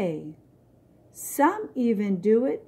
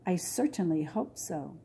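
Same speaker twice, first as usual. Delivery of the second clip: with a smile; 4 dB quieter than usual. Acted. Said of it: "her mother said with a smile".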